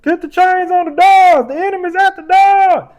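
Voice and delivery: shouted high drill-sergeant principal; Joe Clark. Retold or imitated. Host imitating Joe Clark yelling at students. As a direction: bellow it like a fired-up principal. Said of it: "I'm like Joe Clark".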